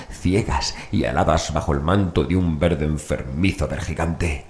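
plain reading voice

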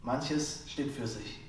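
measured lines with deliberate pauses between; poem recitation. Acted. Slam poet reads a short poem to listeners, measured recitation. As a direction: recite each line as its own statement, emphatic first half.

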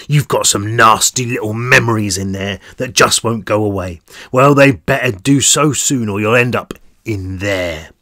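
cold, threatening thug voice; menacing guard. Acted. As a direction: lean in and threaten him.

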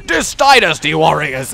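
mock title shout. Hammed-up shout of the game's title.

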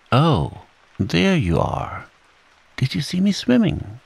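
a hint of a proud little kangaroo; eager Roo. Roo showing off his swimming to Eeyore, high and eager.

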